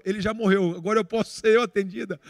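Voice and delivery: mild mock yell from a waiting patient; imitated yell. Woman in the queue joking that she can be seen now, mildly yelled. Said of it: "a mulher gritou".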